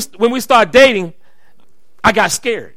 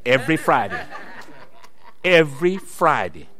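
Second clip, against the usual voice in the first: echo with a laugh; 6 semitones lower, 4 dB quieter than usual. Real, not acted. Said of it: "I'm feeling pretty proud of my woman".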